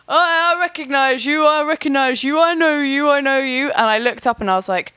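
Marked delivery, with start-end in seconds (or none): 0.1-3.7 excited recognition. Retold or imitated. Stranger on the night train spotting her, eager and high. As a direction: play the stranger lighting up at spotting her, pitched up.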